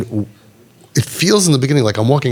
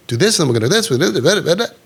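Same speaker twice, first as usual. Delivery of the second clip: higher, sing-song string of mock orders; overwhelming instructions; 4 semitones higher, much faster than usual. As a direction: pile up tasks, trailing into blah-blah babble.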